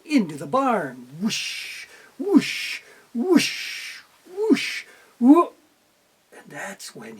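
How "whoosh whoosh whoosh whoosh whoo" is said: breathy whoosh of hay tossed; whooshing sound effect. A narrator's reading. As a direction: swing the pitchfork with each whoosh. Pitchfork tossing hay sound.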